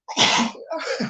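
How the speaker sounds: loud, sudden sneeze; real sneeze. Real, not acted. Speaker interrupted mid-story by a sneezing fit, loud sneeze. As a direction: let a big sneeze burst out. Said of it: "I'm sneezing like this".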